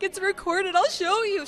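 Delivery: high excited quote. Retold or imitated. Imitating her partner insisting the phone recorded it, high and loud. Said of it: "She's like".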